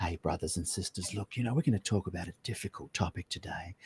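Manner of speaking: very quiet, hushed preacher voice. Imitating how pastors open a talk on a difficult topic: imitating a pastor's hushed tones. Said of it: "pastors have the hushed tones".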